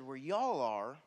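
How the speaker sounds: Texan accent slipping into "Where y'all are", "y'all" drawn out Southern; Texan slip. Real, not acted. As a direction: let the Texan in "y'all" come through. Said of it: "my Texan came out".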